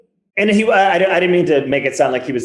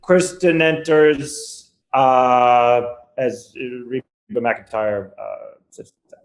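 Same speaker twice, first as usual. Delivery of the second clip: flat summary; slower than usual. Retold or imitated. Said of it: "boil it down to the key".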